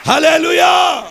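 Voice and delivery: high, loud hallelujah; shouted hallelujah. Real, not acted. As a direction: shout it to the rafters. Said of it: "shouted hallelujah". (బిగ్గరగా హల్లెలూయా)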